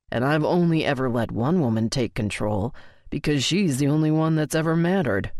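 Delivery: low-key male voice, sheepish and amused; Colton, lightly voiced. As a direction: narrator slips lightly into Colton telling the story.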